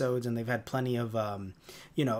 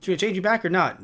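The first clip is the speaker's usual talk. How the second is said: Grumble; 3 semitones higher, 3 dB louder, faster than usual. Retold or imitated. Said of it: "He has this New York accent".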